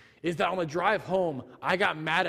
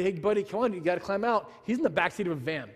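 coaxing nicely; faster than usual. Retold or imitated. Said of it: "I'm talking to him nicely".

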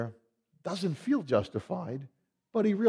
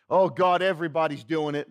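careless excuse; 4 dB louder than usual. Retold or imitated. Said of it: "that's sometimes how we are".

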